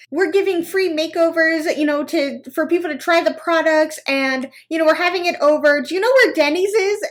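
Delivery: high, gushing compliment; butter her up sweetly; high sweet stranger. Retold or imitated. Saleswoman complimenting a stranger, high and sweet. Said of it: "she never told me".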